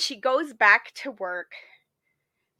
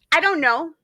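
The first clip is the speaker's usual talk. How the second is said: laughing; 4 semitones higher, 6 dB louder, much slower than usual. Retold or imitated. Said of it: "he says".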